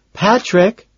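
high, loud call across room. A narrator's reading. Lewis calling after Patrick across the room, loud. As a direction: call his name across the dining room. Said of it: "he calls out".

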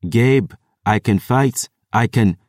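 put-on pushing back in a passable Eladani accent; Eladani protest. A narrator's reading. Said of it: "protested in a passable Eladani accent".

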